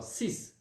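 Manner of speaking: six with a final S sound; French six pronunciation. Shown as a demonstration. Teacher modelling six for online pupils, French pronunciation. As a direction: say six as "sis", ending on a hiss. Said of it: "a gente vai pronunciar assim".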